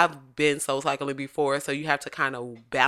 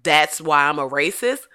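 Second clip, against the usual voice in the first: mock self-pity; 6 dB louder than usual. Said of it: "But it's like".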